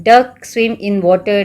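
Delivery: very slow, deliberate reading; slow teacher example. Shown as a demonstration. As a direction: say the example slowly and clearly. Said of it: "And, uh".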